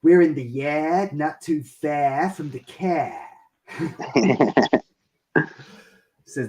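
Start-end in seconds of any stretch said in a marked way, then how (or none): 0.0-3.2 put-on Boston accent. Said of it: "And he said".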